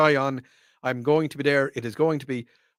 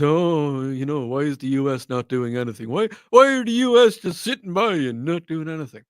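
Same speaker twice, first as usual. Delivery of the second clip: mock complaining. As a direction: moan like a grumbling neighbour. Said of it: "They're giving out".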